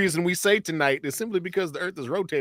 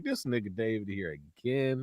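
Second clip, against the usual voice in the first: low, quiet fed-up bandmate; a vocal group; 5 semitones lower, 11 dB quieter than usual. Retold or imitated. Bandmates seeing David turn up, low mock grumbling. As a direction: drop it low and soft, weary of him. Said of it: "these singers would be like".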